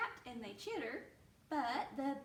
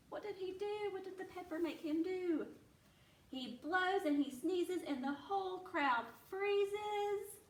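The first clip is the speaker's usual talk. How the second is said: lively, sing-song storybook reading; reading to children. A narrator's reading. Teacher reading a bear story aloud to her class, animated. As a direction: read it like a picture book to little ones.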